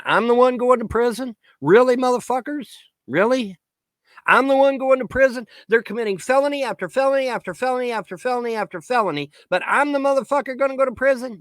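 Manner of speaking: high, incredulous outrage; indignant disbelief. Real, not acted. Ranter answering a threat of prison, indignant disbelief.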